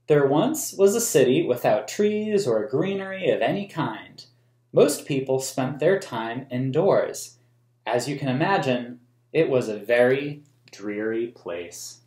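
put-on reading a picture book aloud to children; storybook reading for kids; story narration. A narrator's reading. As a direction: tell the story in a clear, even read-aloud voice. Reads the book's text aloud.

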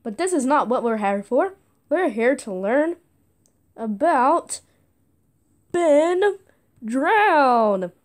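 slow, showy host announcement; talk show host. Acted. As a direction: build up the name like a TV host. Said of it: "I'm talking like a talk show host".

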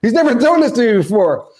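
retold surprise at the batter's box; startled whoa. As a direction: react as if the pitch caught you off guard. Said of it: "I'm like".

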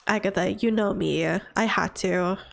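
a hint of a stubborn granny; grumpy old woman. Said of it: "And she's like".

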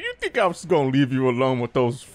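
gentle fatherly affection; tender. Real, not acted. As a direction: coo to your little one. Tender talk to game companion.

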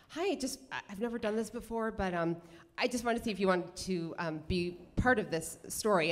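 soft, hesitant approach to a stranger; nervous request. Retold or imitated. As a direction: ask haltingly, with a touch of nerves. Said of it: "so nervous".

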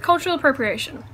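talking with a mouthful of food; mouth full. Real, not acted. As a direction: speak around a bite of dinner. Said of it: "I'm gonna talk with food in my mouth".

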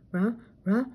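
rising dog-voiced sneeze wind-up; building sneeze. A narrator's reading. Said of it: "Scooby sneezed".

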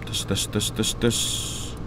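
hushed repeated whisper. Real, not acted. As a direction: breathe it out under your breath. Whispering during tense game moment. (속삭이듯)

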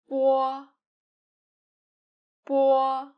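"bo" with no puff of air on the b; plain unaspirated "bo". Shown as a demonstration. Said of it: "the unaspirated sound".

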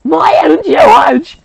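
high, loud twin chorus greeting; loud sing-song greeting. Acted. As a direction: call out cheerfully, way up high. Girls greet the nurse together.

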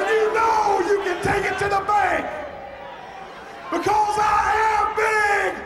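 gruff shouted brag; wrestling promo. Acted. Shouted one-man gang promo.

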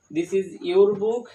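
slow, clear English example; teacher demonstrating a sentence slowly; slow model sentence. Shown as a demonstration. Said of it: "এটা তোমার বই".

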